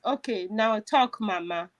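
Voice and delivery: low, softening retold reassurance; gentle coaxing. Retold stranger coaxes her to talk.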